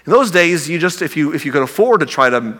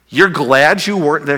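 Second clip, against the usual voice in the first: incredulous. Retold or imitated. Preacher voices incredulous disciples.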